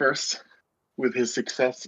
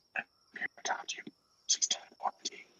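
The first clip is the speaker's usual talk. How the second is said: whispered voice, quieter. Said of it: "Ace hears one last whisper in his head".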